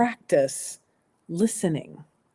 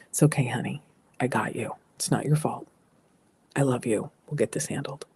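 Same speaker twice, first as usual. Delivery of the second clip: soft, even, soothing parent voice; calm reassurance; 3 semitones lower, 5 dB quieter than usual. Shown as a demonstration. Parent calming a scared child: soft neutral reassurance. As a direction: reassure the child gently and evenly. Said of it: "Again, that neutral".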